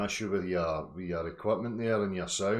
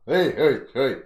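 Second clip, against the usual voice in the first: very loud, high hammed-up bellowing; exaggerated roaring impression of a Traveller fighter; mock Traveller rant; 8 semitones higher, 14 dB louder than usual. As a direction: yell insults like a brawler squaring up. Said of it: "Sorry, Travelling Commando".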